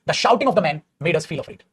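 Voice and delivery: very slow read-out of the example; slow dictation voice. Shown as a demonstration. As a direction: dictate word by word. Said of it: "हम इसको ऐसे लिख सकते हैं".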